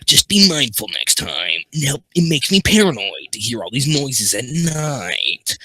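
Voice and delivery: lightly voiced gruff man; steak voice. Shown as a demonstration. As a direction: read it as a mild tough-guy voice. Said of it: "I have to read that in steak voice".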